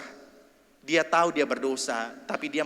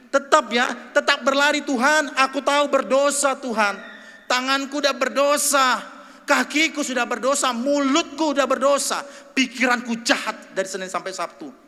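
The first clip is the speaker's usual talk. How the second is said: high, loud pleading prayer; fervent preaching; 11 semitones higher, 7 dB louder than usual. Acted. Preacher acts a sinner's confession to God, high and loud. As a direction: cry it out to God.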